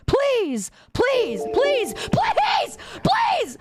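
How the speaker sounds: high, pleading whine that keeps climbing; desperate begging. Real, not acted. Streamer begging the clip to stop, desperate high pleading.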